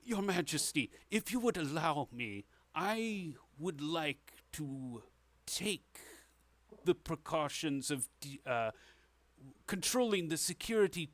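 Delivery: a hint of a formal courtier; lightly voiced Grand Mason. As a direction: address the king with careful deference. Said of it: "her hand and says".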